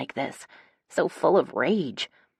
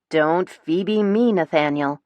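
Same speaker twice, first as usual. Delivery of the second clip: indignant rebuke; 4 dB louder, slower than usual. A narrator's reading. Sister rebukes Nate for stalling, indignant. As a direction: scold him word by word.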